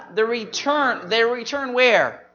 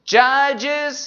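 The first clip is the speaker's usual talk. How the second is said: call-and-response prompt; 5 semitones higher, 4 dB louder than usual. Shown as a demonstration. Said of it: "I'll say the book".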